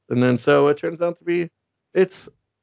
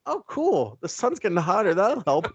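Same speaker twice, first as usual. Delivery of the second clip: much higher, lightly voiced cheerful Superman; a hint of a clueless hero, pitched up and pleased; dopey Superman; 7 semitones higher than usual. Superman cheerfully misses the danger, in a mildly higher dopey voice.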